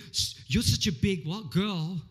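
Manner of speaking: a mild mocking taunt; mocking insult. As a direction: sneer at the whinger. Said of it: "I'm being insulting".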